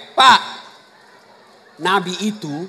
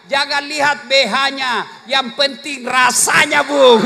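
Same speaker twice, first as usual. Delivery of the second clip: cheeky wife reply; 4 dB louder, slower than usual. Retold or imitated. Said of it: "Apa kata istrinya?".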